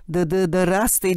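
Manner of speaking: "Ды-ды-ды-растый" with the first syllable stammered three times; stuttered greeting. Retold or imitated. The chairman bursts in, stuttering his greeting. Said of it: "диэн эттэн".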